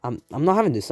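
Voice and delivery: fed-up London slang, mid pitch; not having this, said flat and firm; mild roadman snap; rude Naruto. Acted. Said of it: "Naruto's being, you know, rude now".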